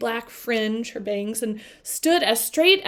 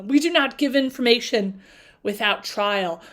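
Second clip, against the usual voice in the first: rough, louder ancient beast setting terms; a stern Sphinx demanding a trial; 3 dB louder than usual. Acted. Reads the Sphinx's lines.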